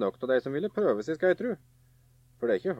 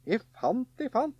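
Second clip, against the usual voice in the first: rising to a high, loud gleeful cry; excited call; 7 semitones higher, 5 dB louder than usual. A narrator's reading. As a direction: build up the excitement of the final find. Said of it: "sa han".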